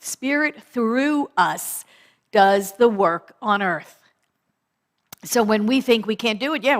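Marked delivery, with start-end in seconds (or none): 0.0-4.0 slow emphatic repeat. Shown as a demonstration.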